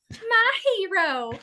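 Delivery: high, slow swooning damsel. Retold or imitated. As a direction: gush it like a rescued damsel. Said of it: "she would go like this".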